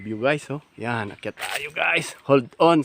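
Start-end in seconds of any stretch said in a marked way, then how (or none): 2.3-2.8 quoting the guide. Retold or imitated. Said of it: "sabi niya".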